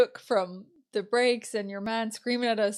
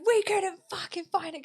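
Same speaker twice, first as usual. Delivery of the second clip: retold fiery retort; 9 semitones higher than usual. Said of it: "me being fire".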